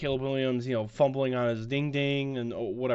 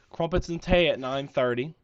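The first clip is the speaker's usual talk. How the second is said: put-on English-country accent mix; 3 semitones higher, 3 dB louder than usual. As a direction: blend a British and country accent. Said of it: "I just combined English and country".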